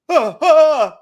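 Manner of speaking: high, loud mock shrieks with a laugh; excited yelp. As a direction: squeal together in surprise. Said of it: "they were both like".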